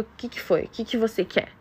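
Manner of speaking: a short, impatient "what is it" at midnight; curt annoyed host mom. Retold or imitated. Host mom irritated at au pair's late call, curtly annoyed. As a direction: snap it out like she was woken up. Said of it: "Tipo, literalmente desse jeito".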